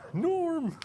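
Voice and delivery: high, drawn-out call; calling out Norm. Pretend. Teacher jokingly calling for Norman, high and drawn out. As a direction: call his name across the room.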